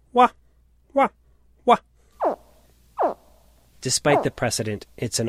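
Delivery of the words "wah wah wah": put-on short, loud, honking "wah" calls, like a baby alligator crying for its mother; alligator wail. Shown as a demonstration. Son showing how a dying alligator calls to its mother, bleating wahs. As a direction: bark out three bleating wahs in a mock baby-alligator call. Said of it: "It sounds like this".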